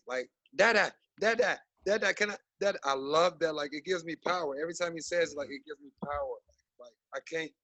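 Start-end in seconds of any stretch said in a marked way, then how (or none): 0.5-2.8 put-on high-pitched toddler calling for daddy; imitating little son. Dad imitating his son pestering him, high eager child voice. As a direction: pipe up like a small child wanting attention. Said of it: "I love hearing "Dada" a thousand times a day".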